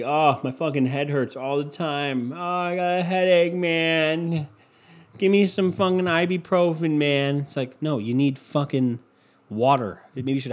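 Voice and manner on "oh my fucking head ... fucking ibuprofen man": 1 mock whiny complainer. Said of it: "They will say".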